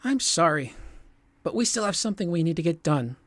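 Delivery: a hint of a Scottish accent, half-slipped; slipping Scottish accent. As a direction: let a Scottish lilt creep in. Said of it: "A Scottish accent almost came out".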